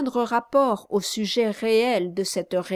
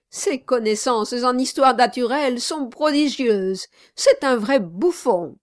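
a hint of fawning, louder; obsequious exclaim; 4 semitones higher, 5 dB louder than usual. Samson fawning over his client, lightly voiced flattery. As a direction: flatter him loudly. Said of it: "l'obséquieux Samson".

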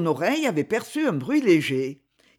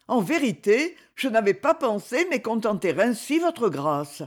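humble; 4 semitones higher than usual. Acted. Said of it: "dit-il d'un ton très humble".

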